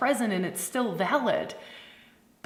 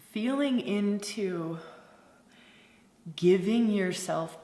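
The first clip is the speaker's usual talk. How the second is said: slow, measured meditation voice with long pauses; guided meditation. Acted. Facilitator settles the circle into permission, guided meditation. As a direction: ease them in slowly, letting each phrase settle.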